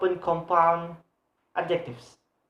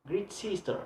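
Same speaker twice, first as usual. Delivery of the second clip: great sister, softer, with sister lengthened; stress on sister; 3 semitones higher, 7 dB quieter than usual. Shown as a demonstration. Teacher repeating the exception, stress on sister. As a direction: lean gently on sister. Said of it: "the stress is sister".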